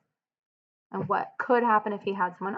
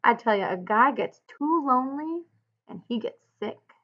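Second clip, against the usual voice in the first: raised, higher cry on the first words, then dropping; cried out; 4 semitones higher, 5 dB louder than usual. Acted. Crooks crying out to Lenny about loneliness, raised voice. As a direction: cry out to Lenny that loneliness makes a guy sick. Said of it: "he cried".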